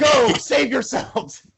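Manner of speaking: high, loud, slow melodramatic shout; drawn-out martyr's cry to companions; heroic farewell cry. Acted. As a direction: bellow a noble, hammed-up self-sacrifice. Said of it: "tell them".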